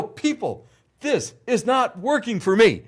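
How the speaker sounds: high, slow commanding producer; bossy producer. Retold or imitated. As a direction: direct the crew, drawn out. Directing medics like a producer.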